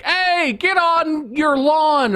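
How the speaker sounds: high-pitched, drawn-out comic holler; mock angry yell. Podcaster acting out an angry pooper yelling, mock high holler. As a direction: call it out high and slow in mock anger.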